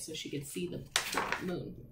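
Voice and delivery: soft, breathless whisper of wonder; hushed. Real, not acted. Teacher telling children about the moon, hushed.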